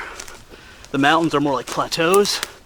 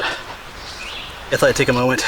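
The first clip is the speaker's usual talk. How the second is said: catching breath on the climb; breathless and slow; much slower than usual. Real, not acted. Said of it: "sorry, I catch my breath".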